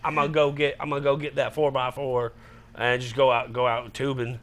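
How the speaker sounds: lightly put-on Southern yokel; dumb Southern accent. Showing his bad accent, lightly dumb Southern voice. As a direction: ramble like a Southern good old boy. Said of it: "You just sound dumb".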